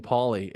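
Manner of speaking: "Poly" said as "Polly", with a full "ee"; mimicked mispronunciation. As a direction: slowly point out "Poly" with a clear "ee" ending. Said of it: "You keep saying".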